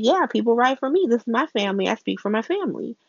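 high, puffed-up declaration; high mock-proud boast; proud Sonny. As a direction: boast about his family. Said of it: "Sonny's like".

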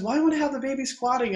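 high-pitched querying voice; retold client's question. Client in labour asking about squatting, retold high query.

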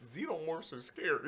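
laughing half shout. Real, not acted.

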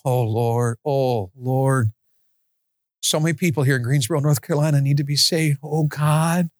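lightly voiced pleading prayer; a hint of earnest pleading to the Lord; fervent prayer. Shown as a demonstration. Preacher demonstrating fervent prayer for Greensboro, earnest. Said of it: "Something like this".

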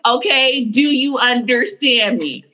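mock-stern check, controlled without yelling; calm stern mom. Mom finishing a talk with her child, calmly firm. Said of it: "That's how calm she is".

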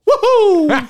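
very high, loud falsetto whoop; Mario. Acted. Mimicking the only words in the games, squeaky Mario whoop. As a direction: squeal it like a game hero jumping. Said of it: "Mario didn't say shit, but".

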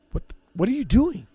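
high, loud outraged yell; retold angry yell. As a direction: shout at her in disbelief. Retold confrontation over jacket.

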